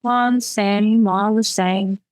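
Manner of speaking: slow, mildly wavering refrain. Acted. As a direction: stretch the words with a slight waver. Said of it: "My voice wavered".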